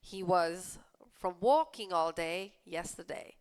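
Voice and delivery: slow, careful read-aloud; slow clear classroom read. Shown as a demonstration. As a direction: read each word slowly for learners. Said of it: "reads sentence slowly".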